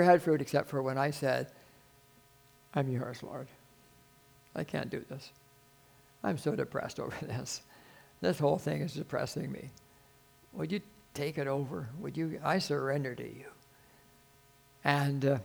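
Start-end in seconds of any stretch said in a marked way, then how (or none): 2.7-13.5 softly re-enacted plea to God; hushed, mildly dejected surrender; downcast prayer. Acts out his discouraged surrender prayer.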